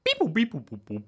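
high beeping robot; toy robot voice. Pretend. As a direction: beep like a little toy robot. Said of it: "introduce yourself, robot slave".

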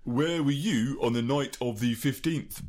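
1930s beat cop. Shown as a demonstration. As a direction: tough American cop pressing a suspect. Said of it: "that's American".

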